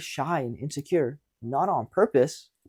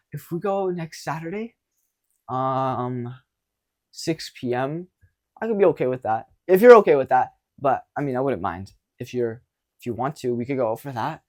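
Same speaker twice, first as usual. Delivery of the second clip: nervous and shaking. Shown as a demonstration. Coach demos a nervous guy asking her out, shaky. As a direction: stumble through it like you're terrified. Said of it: "literally shaking".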